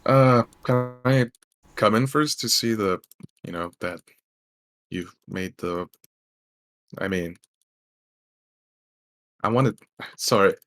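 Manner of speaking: a touch of nervous fan, stumbling and restarting; flustered fan. Acted. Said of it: "I'm a bit flustered right now".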